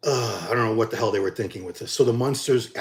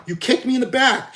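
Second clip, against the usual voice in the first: much higher and louder, back hit hard; repeating the accusation louder; indignant outburst; 11 semitones higher, 4 dB louder than usual. Retold or imitated. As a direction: voice jumping up in outrage. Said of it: "I said".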